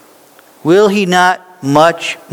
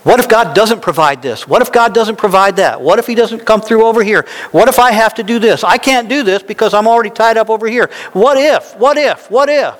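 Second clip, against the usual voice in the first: rising, faster, more and more anxious questions; anxious what-ifs; 6 semitones higher than usual. Retold or imitated. Preacher mimicking a worried believer, rising anxious voice. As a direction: spiral up into fretful worry, faster.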